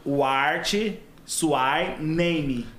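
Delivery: "What Suai Name" read slowly, as spelled for a Portuguese speaker; pronúncia aportuguesada. Shown as a demonstration. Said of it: "Só que ele colocava assim". (inglês lido como se escreve em português)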